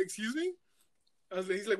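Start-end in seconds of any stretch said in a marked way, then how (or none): 0.0-0.5 higher, softer startled question; retold bewilderment. Driver baffled by cop offering him weed, taken aback. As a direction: act out baffled politeness.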